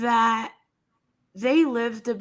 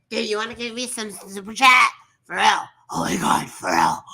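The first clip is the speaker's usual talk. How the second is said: mock Michelle; 4 semitones lower than usual. Imitating Michelle's streamer voice.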